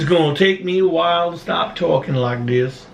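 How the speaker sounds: lightly put-on, bad Southern accent; unconvincing imitation of a Southern accent; terrible Southern accent. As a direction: mimic her with a poor Southern accent. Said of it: "that's a terrible Southern accent".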